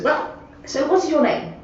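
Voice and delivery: hammed-up posh old man greeting a newcomer; posh gentleman. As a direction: lay on the posh welcome like a retired squire. Posh gentleman asks again.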